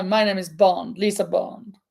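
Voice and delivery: "my name is Bond, Lisa Bond" low, ending on a rise; corrected Bond quote. Shown as a demonstration. Host corrects herself for the player, low mock Bond line.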